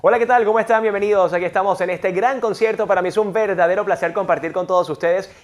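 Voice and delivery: excited host opening a concert; joyful welcome. Shown as a demonstration. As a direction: greet a crowd with pure delight. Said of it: "expresar mucha más alegría".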